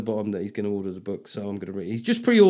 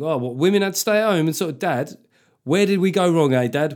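louder, higher teasing provocation; mock cheeky kid; 4 semitones higher, 5 dB louder than usual. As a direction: goad dad, playing the brat.

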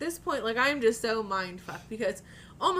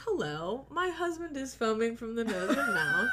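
mock-composed emergency call, lifting in pitch; calm, matter-of-fact; 5 semitones higher than usual. Wife phoning emergency services about her husband, mock-calm. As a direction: act absurdly polite and unruffled. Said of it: "Very calm, very matter of fact".

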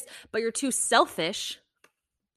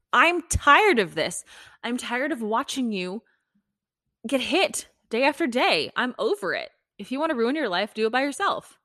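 fed-up wife; 4 semitones higher, 4 dB louder than usual. Retold or imitated. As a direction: act out a wife who has had enough. Voices wife's fed-up ultimatum.

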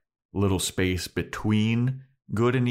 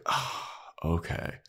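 meek agreement; 3 semitones lower, 7 dB quieter, slower than usual. Retold or imitated. Giles meekly agreeing.

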